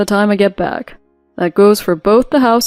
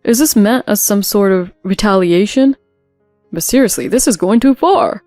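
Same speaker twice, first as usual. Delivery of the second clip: ranting; 5 dB louder than usual. Acted. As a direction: rave at her like an outraged husband. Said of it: "He started to clamor and rant and rave".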